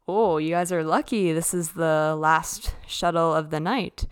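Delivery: mock Austrian driver, cheerfully telling them they're lucky; Austrian accent. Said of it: "in his, like, Austrian accent".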